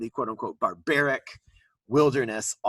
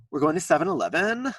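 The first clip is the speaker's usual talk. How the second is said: San Diego upspeak; 4 semitones higher, faster than usual. Retold or imitated. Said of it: "people from San Diego seem to end every sentence".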